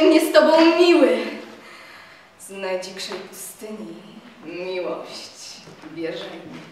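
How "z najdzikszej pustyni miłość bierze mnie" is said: tender hush. A narrator's reading. Lover's tender vow.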